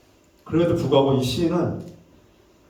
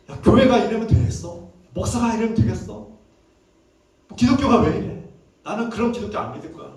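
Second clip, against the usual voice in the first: indignant complaint; 4 semitones higher than usual. Retold or imitated. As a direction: protest as a fed-up churchgoer, pitched up. Disillusioned believers' complaint acted out. (교회에 실망한 사람의 따지는 말투 흉내)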